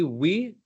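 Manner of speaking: WE with a rounded w; careful w sound. Shown as a demonstration. Coach repeats the example for learner, careful w. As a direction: start WE on rounded lips, no v. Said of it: "very conscious even when I have to say".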